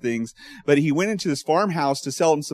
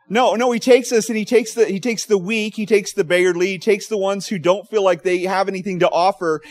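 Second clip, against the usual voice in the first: higher, louder preaching swell; rising fervor; 4 semitones higher, 3 dB louder than usual. Real, not acted. Preacher lifting the congregation, rising fervor.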